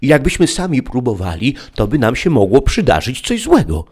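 put-on high, loud little girl's voice; a child reciting the rule; childlike Eve. A narrator's reading. Eve repeating father's rule. (wysoki, głośny głosik dziecka)

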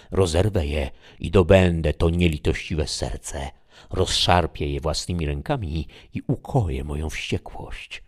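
acted fury, bursts of loudness; furious outcry. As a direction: cry out like an avenging fury, moderately restrained. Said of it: "na kształt furii". (wściekły okrzyk, z umiarem)

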